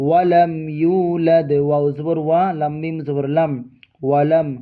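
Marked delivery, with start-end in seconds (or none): 0.1-1.5 slow, melodic recitation of the verse; Quran recitation. Shown as a demonstration. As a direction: draw out each word in tajweed. (ধীর সুরেলা তিলাওয়াত)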